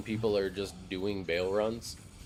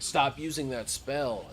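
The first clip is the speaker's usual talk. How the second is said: higher, slow angry demand; raging player; 6 semitones higher, slower than usual. Retold or imitated. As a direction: mimic a raging teammate. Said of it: "He's like".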